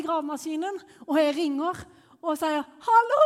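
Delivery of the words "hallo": high, loud drawn-out cry into the phone; hammed-up sobbing shout; re-enacted tearful wail. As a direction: wail the hello as if falling apart. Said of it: "Jeg, jeg bare grein og grein".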